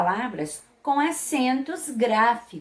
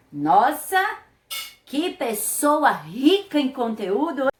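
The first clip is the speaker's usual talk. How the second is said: loud rising wow of admiration; a bright amazed "nossa"; impressed wow; 3 semitones higher, 3 dB louder than usual. Real, not acted. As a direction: marvel at the person's résumé. Teacher reacts to bio.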